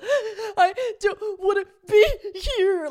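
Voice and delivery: high, loud, slow sob; sobbing wail. Shown as a demonstration. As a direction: wail like a hysterical child. Demonstrating level of crying.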